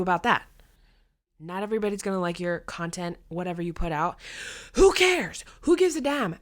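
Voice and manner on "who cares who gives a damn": high, loud dismissive scoff; scornful who cares. Real, not acted. Vlogger to viewers, high scornful dismissal. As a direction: toss it off with scorn.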